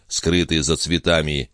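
ordinary delivery, nothing marked

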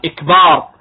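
"إكبار" starting with a short i, then long baar; kasra on the hamza. Shown as a demonstration. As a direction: open "إكبار" on i instead of a, stretch the end. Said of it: "بكسر الهمزة".

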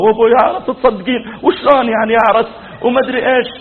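high-pitched clamour of disbelief; imitated children's outcry. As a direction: mimic kids crying out, pitch up. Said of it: "وعيالها قاموا يصيحون ورا". (تقليد صياح الأطفال)

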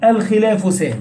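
verse recited slowly and carefully; slow poem recitation. Shown as a demonstration. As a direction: chant the line slowly and evenly. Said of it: "قال".

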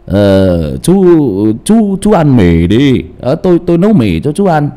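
put-on rejected take old man. Shown as a demonstration. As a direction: offer the noodles slowly and a bit too loud. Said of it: "Không hợp đúng không ạ?". (giọng ông già đọc thử, chậm và to hơn)

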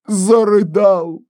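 plain reading voice

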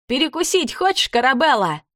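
high teasing call; taunting shout. A narrator's reading. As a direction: tease the ghoul with the lobster. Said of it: "выкрикнула она".

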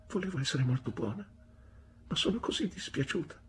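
high, small pleading voice; contrite. A narrator's reading. Wife tells her husband she meant to be good, contritely.

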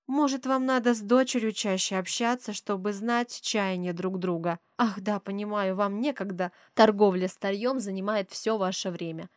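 snide, needling remarks with a mocking edge. Rich mother snipes at the pawnbroker mother, snide. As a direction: needle her with mock sympathy. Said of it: "ехидничает Полина".

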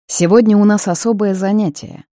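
clipped, precise, like a drill officer; crisp military tone. Acted. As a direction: bark it out like a commander on parade. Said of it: "по-военному чётко произнёс он".

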